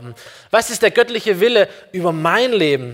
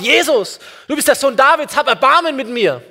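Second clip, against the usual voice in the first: raised, higher-pitched cry to Jesus; calling out loudly; 6 semitones higher, 3 dB louder than usual. Retold or imitated. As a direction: imitate a blind man calling out for mercy. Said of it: "ruft so richtig laut".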